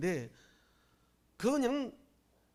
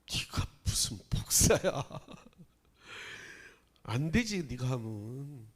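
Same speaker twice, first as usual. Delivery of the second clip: a hint of a sneering accuser, whispered; mock scolding; 5 semitones lower, 4 dB quieter than usual. Pastor imitating a critic who scoffs at him. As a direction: mutter it as a scornful critic.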